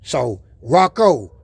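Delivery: rally them like a hype man; loud challenge. Real, not acted. Vlogger challenging the Rocco riders, loud and pumped.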